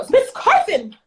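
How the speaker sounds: mock alarmed colleague; panicked teacher. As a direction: play the flustered teacher on the phone. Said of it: "phone call from one of my teachers".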